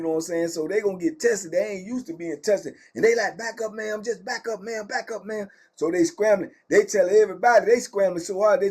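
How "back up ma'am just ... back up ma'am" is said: imitated officer, kept soft; officers' order. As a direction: rattle off a hushed police order. Voicing officers ordering woman back.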